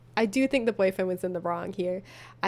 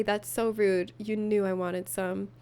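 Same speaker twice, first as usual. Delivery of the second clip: dramatic reading; 3 semitones lower, slower than usual. Acted. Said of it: "add a little drama to it".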